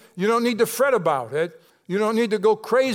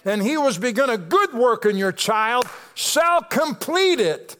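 preaching climax; 5 semitones higher than usual. Acted. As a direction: build to a climax from the pulpit.

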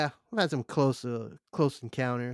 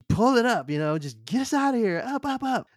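urgent yell to the pilots; high, loud command shout; 11 semitones higher, 7 dB louder than usual. Retold or imitated. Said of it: "and I'm like".

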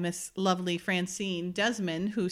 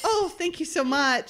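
higher-pitched, hammed-up polite thanks; mock gratitude; 6 semitones higher than usual. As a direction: imitate an uncomfortable woman forcing out thanks. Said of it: "And Amanda's like".

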